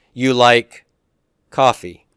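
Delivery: "You like coffee" falling at the end as a statement; statement tune. Shown as a demonstration. Teacher showing a statement to the class, "You like coffee" with falling tone. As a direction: say "You like coffee" evenly, dropping on "coffee". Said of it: "I'm making a statement".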